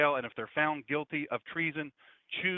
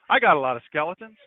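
mock whining; 8 dB louder than usual. Mock fearful conservatives' excuse.

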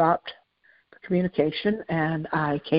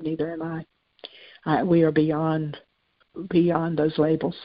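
gentle. Retold or imitated. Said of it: "she laughed, uh, very gently".

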